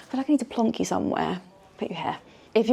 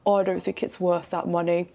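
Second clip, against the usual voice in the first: loosely attempted Doncaster accent; put-on Doncaster accent. Imitating a TV guesthouse owner from Doncaster, uncertain Doncaster accent. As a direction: have a rough go at a Doncaster accent. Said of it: "I don't know what that accent was".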